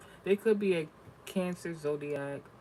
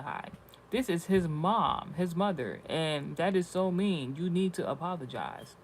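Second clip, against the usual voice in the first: mock prissy commenter; 3 semitones higher, 5 dB louder, slower than usual. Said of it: "I think they meant to say".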